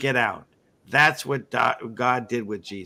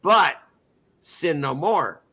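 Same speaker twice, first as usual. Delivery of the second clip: gentle command; 3 semitones higher than usual. Retold or imitated. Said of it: "what does he say".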